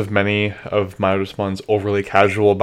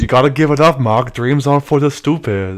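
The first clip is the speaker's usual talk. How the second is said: Tommy Wiseau impression; 4 semitones higher, 4 dB louder than usual. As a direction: overact like a bad movie actor. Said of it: "same energy as, like, a line from The Room".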